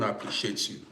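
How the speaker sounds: soft whisper of gratitude; whispered thanks. Real, not acted. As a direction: breathe the thanks quietly. Thanking viewer for gift.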